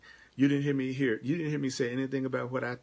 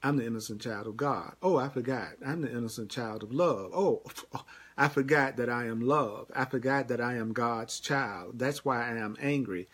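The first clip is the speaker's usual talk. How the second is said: gentle self-reminder. Pretend. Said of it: "It's as simple as going".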